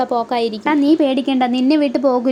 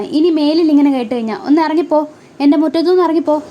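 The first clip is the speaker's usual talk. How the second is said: angry order to leave; 2 semitones higher, 3 dB louder than usual. Retold or imitated. Mother orders family off courtyard.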